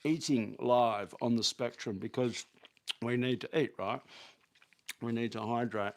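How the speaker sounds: talking while chewing an apple; mouth full. Real, not acted. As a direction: speak through a bite of apple. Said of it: "I'm just eating a beautiful apple".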